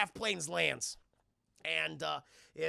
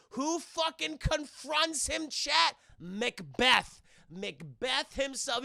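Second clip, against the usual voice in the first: dramatic reveal; 7 semitones higher, 6 dB louder, much slower than usual. Real, not acted. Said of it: "building dramatic reveal".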